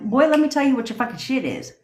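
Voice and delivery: bold, no-nonsense telling-off; sassy confidence. Shown as a demonstration. Coach showing the confidence to use, sassy. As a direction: lay down the law with swagger. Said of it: "say it with a confidence level like".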